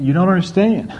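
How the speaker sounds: knowing smile in the voice, lightly voiced; fond chuckling reassurance, understated; smiling amused God. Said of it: "I can almost see God smiling, saying".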